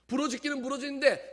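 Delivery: loud, high-pitched preaching at full force; prédication enflammée. Real, not acted.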